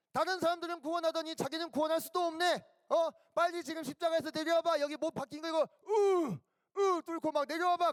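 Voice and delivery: high-pitched taunting of a helpless man; acted mockers' jeer; jeering mockery. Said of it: "막 놀려댔다는 거예요".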